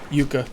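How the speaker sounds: yucca said YOO-kuh; long "yoo" at the start of yucca; alternate pronunciation. Shown as a demonstration. Player trying out the plant's name, yucca as YOO-kuh. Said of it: "Some people say yucca".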